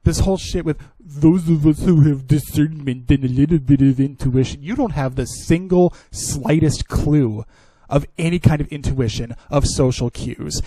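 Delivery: loud, heated rant; angry rant. Real, not acted. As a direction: lay into them angrily.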